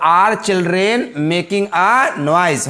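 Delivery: put-on "Are children make a noise" read very slowly; teacher dictating the blank sentence; slow dictation. Shown as a demonstration. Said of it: "तो".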